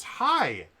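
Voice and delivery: imitating Chris's cheery high greeting; a chipper, high-pitched hello; mock cheerful Chris voice; bright high hi.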